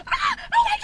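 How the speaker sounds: high-pitched reenacted shriek; sudden squeal of alarm; startled scream. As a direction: yelp as if suddenly grabbed. Reenacts being grabbed in haunted house.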